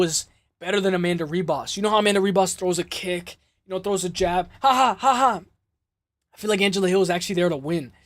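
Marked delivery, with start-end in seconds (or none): 4.6-5.4 spoken ha-ha. Acted. Imitated laugh while describing jabs.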